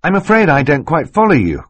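put-on politely puzzled boy; a touch polite and confused; polite Klaus. A narrator's reading. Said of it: "the polite way of saying".

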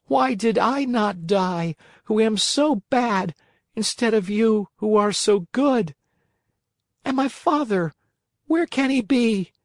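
high little voice full of woe; tearful lament. A narrator's reading. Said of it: "As he sobbed".

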